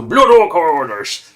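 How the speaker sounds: hammed-up bad pirate accent, title read with gusto. Shown as a demonstration. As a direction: growl the heading like a cartoon pirate captain. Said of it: "let's do it in a proper pirate accent".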